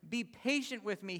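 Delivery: a lightly acted servant begging; mild begging. A narrator's reading. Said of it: "he begged".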